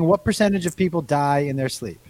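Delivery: attempted Irish accent, lightly done; a faint Irish lilt. Shown as a demonstration. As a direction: say it as an Irish speaker would. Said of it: "Here's my Irish accent".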